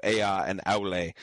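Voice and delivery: Ea and Aule, two syllables each; two-syllable words. Shown as a demonstration. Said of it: "both of those two syllable words".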